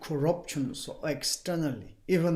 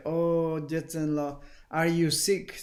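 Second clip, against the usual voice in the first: feigned concern. Retold or imitated. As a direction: ask with a touch of put-on concern. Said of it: "kind of artificial way".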